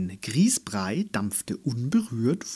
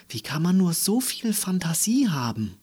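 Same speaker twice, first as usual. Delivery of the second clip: marvelling question; 7 semitones higher than usual. A narrator's reading. Mother marvels proudly at daughter.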